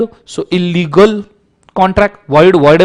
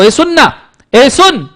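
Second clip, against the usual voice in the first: high coaxing call, much higher; calling someone over; 6 semitones higher than usual. Retold or imitated. Teacher acting out calling a person to propose, high coaxing call. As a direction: call out to get someone's attention. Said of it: "जब आप किसी को propose करते हो".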